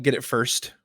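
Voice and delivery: ordinary talk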